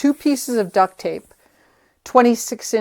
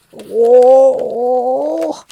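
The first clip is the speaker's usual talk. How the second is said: higher, louder startled whoa; 5 semitones higher, 5 dB louder than usual. Real, not acted. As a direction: react to the crinkle with a startled whoa. Tape crinkles unexpectedly.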